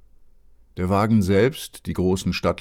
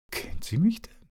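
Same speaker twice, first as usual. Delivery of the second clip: put-on small boy's voice, much higher; a curious child asks the housekeeper, much higher; little boy asking; 12 semitones higher, 3 dB quieter than usual. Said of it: "fragte Lord Fauntleroy".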